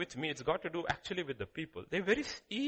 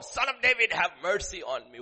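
crying out for mercy; 5 dB louder than usual. Retold or imitated. Bartimaeus crying out.

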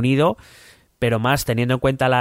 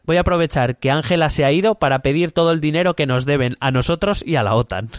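higher-pitched Trump diary voice; 5 semitones higher than usual. Acted. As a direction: read it as a pompous Trump. (voz de Trump, más aguda)

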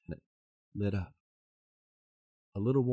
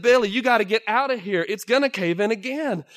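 high, loud warning; urgent warning; 10 semitones higher, 9 dB louder than usual. Acted. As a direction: warn him to get out. Miners urging him to leave.

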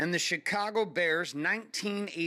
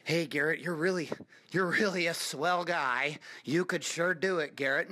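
mock soft encouragement; 3 semitones lower than usual. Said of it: "that's not gonna come through soft words".

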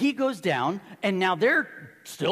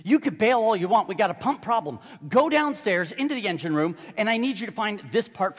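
captain commanding; 3 semitones higher, 5 dB louder than usual. Retold or imitated. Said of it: "He said".

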